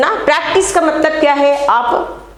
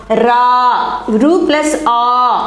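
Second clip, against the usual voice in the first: slow syllable spelling; much slower than usual. Shown as a demonstration. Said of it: "मात्रा के स्थान पर अक्षर लिखना".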